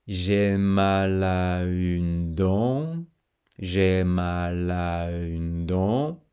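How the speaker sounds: very slow, syllables chained together; slow linking demo; linked syllables. Shown as a demonstration. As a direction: chain mal à une dent slowly. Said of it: "enchaînement ici consonantique".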